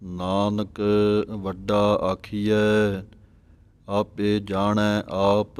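slow, measured sacred recitation with drawn-out vowels; slow devotional Gurbani reading; scripture recitation. Shown as a demonstration. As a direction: recite each phrase deliberately, holding the long vowels.

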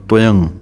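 ਤੋਇੰ clipped short and tight, toin; tight and quick. Shown as a demonstration. Teacher shows how toin is said tight and quick. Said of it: "ਕੱਸ ਕੇ ਬੋਲਣਾ ਹੈ ਜਲਦੀ ਨਾਲ".

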